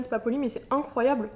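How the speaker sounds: talking with a mouth full. Real, not acted. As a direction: speak through a mouthful of sweets. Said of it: "Je parle avec la bouche pleine".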